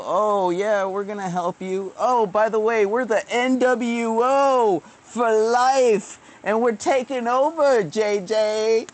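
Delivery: hammed-up sneering villain boasting; mocking villain voice. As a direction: gloat like a cartoon conspiracy boss. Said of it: "And then you'd go".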